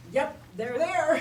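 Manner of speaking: deadpan confirmation. Retold or imitated. Woman checks the comedian's chest.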